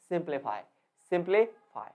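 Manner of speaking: सिंप्लीफाई with clear सिंपल, फाई barely sounded; stress before the suffix. Shown as a demonstration. Teacher showing the reading, सिंपल stressed in सिंप्लीफाई. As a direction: hit सिंपल, let फाई fade and fall. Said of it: "सिंपल का sound बहुत अच्छे".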